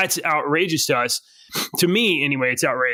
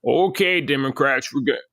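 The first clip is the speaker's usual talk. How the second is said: McConnell impression; 2 semitones lower than usual. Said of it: "my impression of McConnell".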